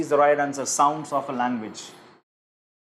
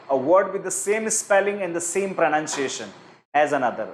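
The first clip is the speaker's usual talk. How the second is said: slow, deliberate reading of the answer options; measured quiz-question voice; much slower than usual. Shown as a demonstration. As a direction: read each option out slowly for the class. Teacher reads quiz question aloud.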